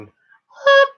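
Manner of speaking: very high, loud squeaked note. Shown as a demonstration. Streamer demonstrating voice range to viewers, shooting up high. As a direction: pop up into a piercing high pitch. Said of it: "it goes up".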